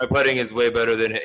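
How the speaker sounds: lightly put-on Spanish accent; imitated Spanish-accented golfer, quite sure of himself. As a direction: finish the deadpan boast in a mild Spanish accent. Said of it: "this is my Spanish accent".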